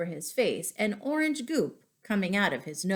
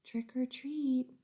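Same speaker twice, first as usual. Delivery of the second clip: slow, a touch louder; boy repeating a little louder; 5 semitones higher, 6 dB quieter than usual. Acted. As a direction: try again a bit louder. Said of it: "He said a little louder".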